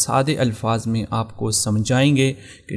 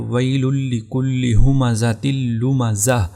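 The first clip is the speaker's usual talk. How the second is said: slow Quran recitation of ویل لکل ہمزۃ لمزہ; reciting the verse; much slower than usual. Shown as a demonstration. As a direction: recite the verse slowly in tajweed style. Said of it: "جیسا کہ آپ اس مثال میں دیکھ سکتے ہیں".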